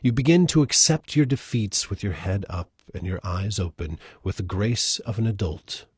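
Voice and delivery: measured, earnest poem recital; gentle reading of a poem. Acted. Reads a requested poem.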